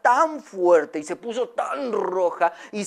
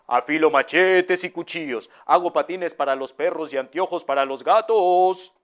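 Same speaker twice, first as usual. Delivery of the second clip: street vendor's call. Retold or imitated. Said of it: "que decía".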